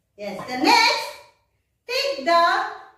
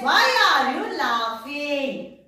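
"why are you laughing?" slow, stressing "why"; slow model answer. Shown as a demonstration.

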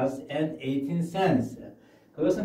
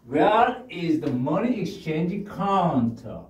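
"Where is the money exchange counter?" rising then falling on "counter"; 올라갔다 내리는 억양; rise then fall; much slower than usual. Shown as a demonstration. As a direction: go up then come down at the end. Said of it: "올라갔다가 내려야 됩니다".

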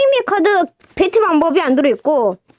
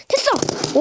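sudden relief; 9 semitones higher, 4 dB quieter, much slower than usual. Real, not acted. Part suddenly works.

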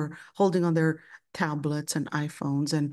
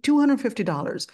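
incredulous repeat; 7 semitones higher, 5 dB louder, faster than usual. Retold or imitated. Repeats the price in disbelief.

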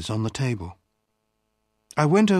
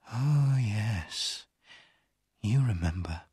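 sweet unhappy smile; 4 semitones lower, 4 dB quieter, slower than usual. A narrator's reading. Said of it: "with a sweet, unhappy smile".

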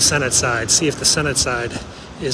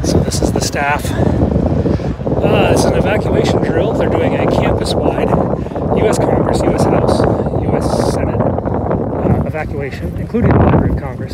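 shouting over wind; 3 semitones higher, 6 dB louder than usual. Real, not acted. Talking loud outdoors in wind.

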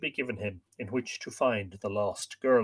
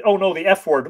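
quoting a chat comment; 6 semitones higher, 9 dB louder than usual. Retold or imitated. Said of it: "Brendan Byrne said".

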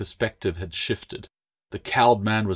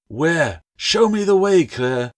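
much higher and louder urgent cry; shouted demand; 9 semitones higher, 8 dB louder, slower than usual. A narrator's reading. Bound man shouting at Claire above the storm. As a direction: yell it over the roaring storm. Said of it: "his voice swelled above the storm".

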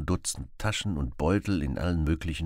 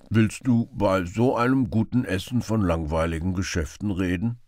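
reproachful; 2 semitones higher, 4 dB louder than usual. Acted. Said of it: "fragte der Bettler vorwurfsvoll".

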